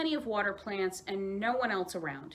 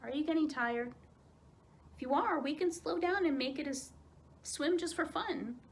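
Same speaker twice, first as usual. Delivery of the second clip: gentle offer; 7 semitones higher than usual. A narrator's reading. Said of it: "she offered".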